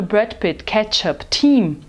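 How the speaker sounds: Brad Pitt, ketchup, team in an American accent. Shown as a demonstration. Teacher modelling American English for Germans. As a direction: say them the American way, no extra vowels. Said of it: "do jeito americano".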